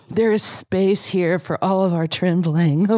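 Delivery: lightly put-on soothing therapist voice; a hint of a calm, mystical guide; soothing guru voice. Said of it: "That's creeping me out".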